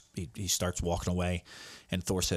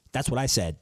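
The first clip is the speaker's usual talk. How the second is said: emphatic; 3 semitones higher, 4 dB louder than usual. Shown as a demonstration. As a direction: punch it with pride.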